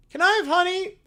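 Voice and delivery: high, surprised little bear voice; little bear jolted awake; high cartoon bear. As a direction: squeak it out like a startled cub. Bear asks Jesus.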